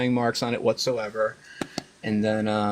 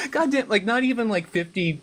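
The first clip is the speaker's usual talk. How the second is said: laughing exasperation; 10 semitones higher than usual. Retold or imitated. Reacting to fifty-fifty poll.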